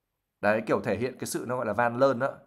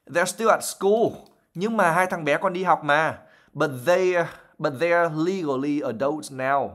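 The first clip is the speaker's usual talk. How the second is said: mildly tired; 4 semitones higher than usual. Acted. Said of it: "in the same tired voice".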